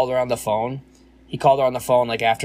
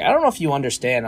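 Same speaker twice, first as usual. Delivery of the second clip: getting lippy; 4 semitones higher, 4 dB louder, faster than usual. Retold or imitated. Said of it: "lippy with her".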